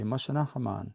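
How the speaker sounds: Imasanahaman with a long "ah" in the last syllable; long final A. Shown as a demonstration. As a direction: draw out the final "man" of Imasanahaman. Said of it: "That long A at the end".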